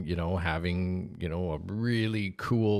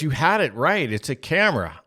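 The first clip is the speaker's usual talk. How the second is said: dad's voice; 5 semitones higher, 4 dB louder than usual. Retold or imitated. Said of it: "And he goes".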